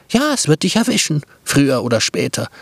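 Brotkäppchen telling the wolf his fate, fast and bright; blunt girl. Acted. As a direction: rattle it off brightly.

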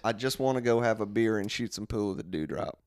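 low, weary lightly voiced coworker; a hint of a fed-up clerk; bored coworker voice. Mark character continues.

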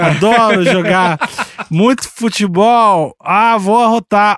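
slow, lightly voiced boorish guy; macho man voice. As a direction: drawl it out like a lazy macho dude. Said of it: "Vestida de homem".

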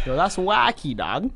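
Toronto slang drawl on "wacky"; Toronto slang accent. Shown as a demonstration. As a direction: say it like a Toronto kid. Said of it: "put it in the Toronto voice".

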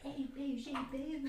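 joking soft ASMR come-on; mock ASMR. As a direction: coo it gently, a little high. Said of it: "A S M R would go south".

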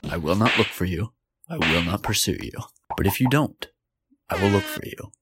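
hint of a cold action-hero threat; movie threat speech. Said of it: "I'm gonna read a speech".

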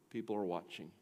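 low, soft repeat of People are watching; quiet reminder to the congregation; hushed echo. Shown as a demonstration. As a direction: drop the voice to let it sink in.

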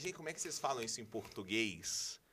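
mock clueless returnee. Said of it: "Falar assim".

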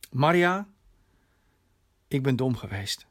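ingehouden, dalend naar laag; berouwvolle bekentenis. Acted. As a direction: beken het met een vleugje berouw. Vader biecht zijn fout op. (berouwvol, ingetogen)

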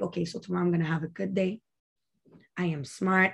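soft and quick, rattling off affirmations. Retold or imitated. Falling asleep, she quietly recites affirmations to herself, soft and quick. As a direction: hush them out fast like a bedtime mantra.

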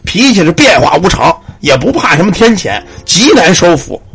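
lightly voiced old temple keeper, grave and measured; a hint of a weary elder explaining; sighing old man. Old temple keeper explains the child spirit to parents, grave sigh. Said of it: "这老头儿叹口气".

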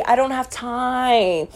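slow, dismissive brush-off. Real, not acted. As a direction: drag it out, unbothered. Dismissing a hater slowly.

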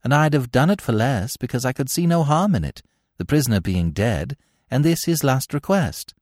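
lightly voiced hired man owning up; confessing hired man. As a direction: explain yourself to your questioner, pitched a little up.

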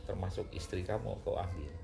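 low-pitched verdict, lightly acted; a hint of solemn authority; booming divine voice. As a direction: pronounce it as the voice from above. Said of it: "gelegar gede".

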